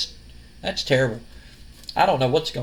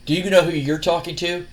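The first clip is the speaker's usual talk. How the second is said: understated, level echo of her question; cocky retort. Retold or imitated. Cocky wrestler turns the lady's question back on her, mildly smug. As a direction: lightly imitate a smug wrestler throwing it back.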